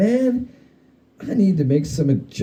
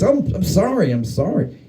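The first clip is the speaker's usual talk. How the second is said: wailing; 6 semitones higher than usual. Acted. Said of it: "He wails".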